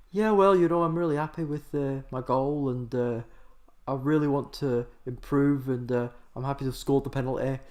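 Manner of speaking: lightly voiced, mild mumbling post-match interview; a hint of a shy player talking to the press; Marcus Rashford impression. Footballer giving a post-match interview after scoring, lightly mimicked. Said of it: "me doing an impression of Marcus Rashford would be like this".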